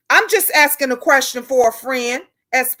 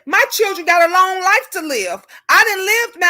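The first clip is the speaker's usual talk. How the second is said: higher, earnest plea; high pleading voice; pleading to the Lord; 5 semitones higher than usual. Retold or imitated. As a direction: beg the Lord to take you instead. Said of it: "I'm gonna be the first one to say".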